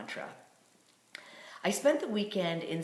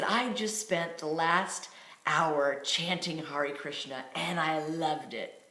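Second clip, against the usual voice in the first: slow, drawn-out retold declaration; mildly theatrical, savoring each word; dramatic announcement; slower than usual. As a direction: stretch it out for dramatic effect. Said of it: "I have a flair for the dramatic".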